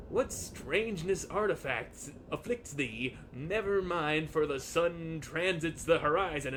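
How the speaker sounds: put-on a touch of old-fashioned stately lodger; lightly voiced olde-English landlord; archaic formal speech. Landlord asking the lodger to sign papers, lightly archaic. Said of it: "When did you start talking like this?".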